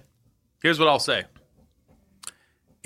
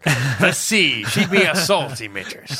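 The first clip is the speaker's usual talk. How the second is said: pirate voice; 3 semitones higher, 4 dB louder, slower than usual. Retold or imitated. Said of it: "said it a little bit like a pirate".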